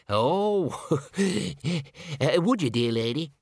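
high squeaky little man with a nervous laugh. Acted. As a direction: squeak it out shyly. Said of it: "said the man in a squeaky voice".

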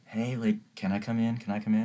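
softly imitating a timid girl. Girlfriend timidly asking the roommate at the door, timid. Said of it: "super timid".

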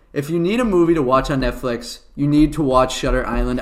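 measured, steadier delivery; slowed down. Shown as a demonstration. Host redoing the recommendation after a complaint, slowed down. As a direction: take it down to an unhurried pace. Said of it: "I'll slow it down".

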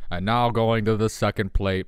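a hint of a play-by-play announcer; sports announcer. Joking about the cat, mild announcer voice. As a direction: lightly call it like a ballgame. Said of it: "a sports announcer is trapped".

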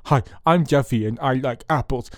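put-on light goofy kid voice; a lightly voiced dim child; Jeffy voice. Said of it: "Johnny Knoxville for doing that movie".

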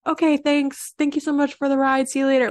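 friendly. Retold or imitated. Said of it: "it's a friendly interaction".

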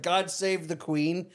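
slow solemn God save the Queen; slow royal toast. Retold or imitated. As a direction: say it slowly like a toast. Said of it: "He's like".

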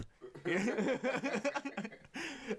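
long, high cackling laugh; hearty laughter. Real, not acted. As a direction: crack up at your own punchline. Laughs at own punchline.

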